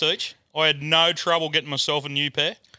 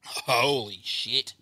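strained after a shot; 3 semitones lower, 4 dB quieter, much slower than usual. Real, not acted.

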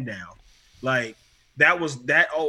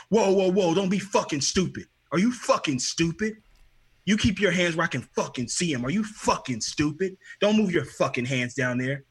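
threatening cop; 3 semitones higher than usual. Retold or imitated. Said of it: "him threatening me".

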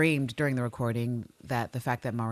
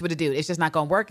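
ordinary talk

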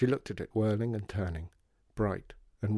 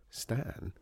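under his breath; 5 dB quieter than usual. Acted. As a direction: murmur it privately. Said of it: "under his breath".

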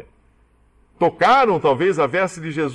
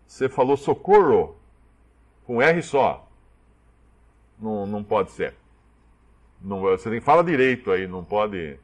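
fussy lifeguard; 5 semitones lower than usual. Acted. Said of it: "O salva-vidas fala assim".

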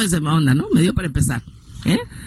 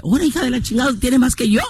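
indignant amazement; 5 semitones higher than usual. Retold or imitated. Mother confronts her, retold.

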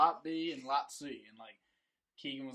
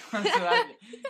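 loud squeal; 13 dB louder than usual. Retold or imitated. Acted reaction in retold scene.

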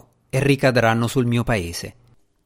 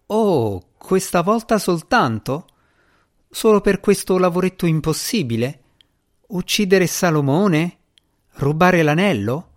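sarcastic mockery; 6 semitones higher than usual. Djinni mocking the mission.

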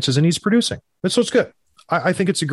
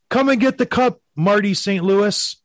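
announcer call; 5 semitones higher than usual. Retold or imitated. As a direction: boom it out like the arena announcer. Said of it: "he said".

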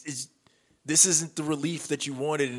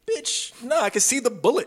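mild quote; 8 semitones higher than usual. Retold or imitated.

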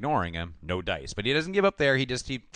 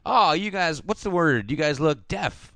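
higher mock dad, fumbling slang; mock dorky dad; 6 semitones higher, slower than usual. Mocking the dad fumbling for slang. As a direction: play a dad trying to be cool. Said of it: "he's like".

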